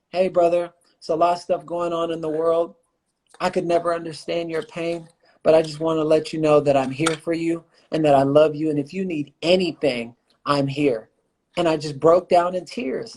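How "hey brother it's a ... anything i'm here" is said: lower, lightly voiced friend Casey; a hint of a caring friend, lower; friend's gentle words. Retelling the friend's message to a grieving man, lower and mild. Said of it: "He goes".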